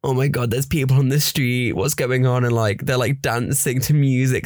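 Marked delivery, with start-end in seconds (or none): 0.0-2.4 mock newcomer. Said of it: "coming to Leicester Uni and being like".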